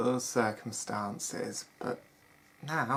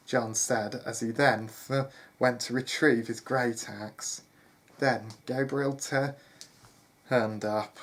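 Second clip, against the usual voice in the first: measured storyteller delivery; story narration. A narrator's reading. Narrator telling listeners of John leaving the manor, story narration. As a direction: read it out as a tale.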